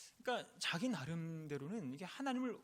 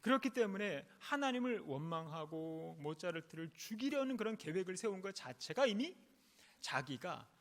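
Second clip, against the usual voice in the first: raised, emphatic sermon delivery; emphatic preaching; 6 semitones higher, 4 dB louder than usual. Real, not acted. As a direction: drive the point home to the congregation, pitched up. (힘주어 강조하는 설교조)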